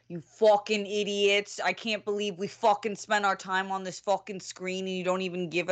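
put-on scolding in a wobbly Boston accent. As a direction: attempt a Boston telling-off, accent coming and going. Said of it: "In your best Boston accent".

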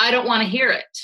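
put-on a mild, offhand shutdown of a child's feelings; dismissive parent. Shown as a demonstration. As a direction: brush the child off with a curt dismissive tone. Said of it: "you'll hear how easily it comes off my tongue".

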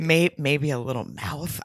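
slow, creepy imitation; mock creepy, drawn-out. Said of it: "It was creepy".

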